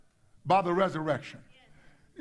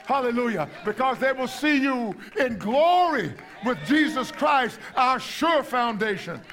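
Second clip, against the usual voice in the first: raised, emphatic preacher's delivery; impassioned preaching; 4 semitones higher than usual. Real, not acted. Preacher assuring believers they will be vindicated, impassioned preaching. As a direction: preach it out to the congregation with conviction.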